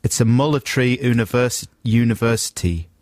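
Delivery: phonetic South African reading; attempted South African accent. Retrying Matt Damon's film line, attempted South African accent. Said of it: "he should just sound perfectly South African".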